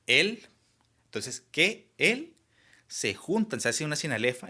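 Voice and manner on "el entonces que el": "que el" drawn out slowly, pitched high and louder; teacher stretches "que el" to show the vowels meeting; sounding out the vowels. Shown as a demonstration. Teacher showing the class the sinalefa, slow and high. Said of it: "que es".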